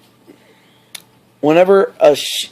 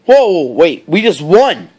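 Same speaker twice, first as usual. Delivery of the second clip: surprised cheer; 2 semitones higher than usual. Retold or imitated.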